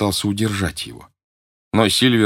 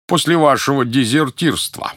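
дезертирства pushed higher and louder; stress on дезертирства; 6 semitones higher, 3 dB louder than usual. A narrator's reading. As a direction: lean hard on дезертирства, pointed. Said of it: "На последнем слове он сделал особый акцент".

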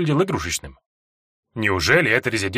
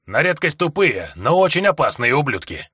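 gruff gravelly dwarf voice; 3 semitones higher than usual. Acted. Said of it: "проворчал гном".

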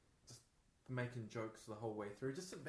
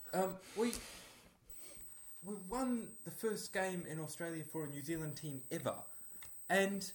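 put-on loud, higher-pitched South African accent; a hammed-up South African accent, pitched up; Irene van Dyke South African accent; 5 semitones higher, 10 dB louder than usual. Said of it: "in the style of Irene van Dyke".

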